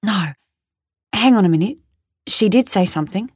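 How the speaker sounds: Australian man correcting himself; Australian accent. Acted. Tom remembers she said something, Australian accent. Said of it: "the Australian one".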